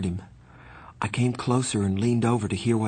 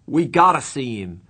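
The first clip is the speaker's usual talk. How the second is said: shaking insistence; 5 semitones higher, 7 dB louder than usual. A narrator's reading. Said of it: "His voice was shaking".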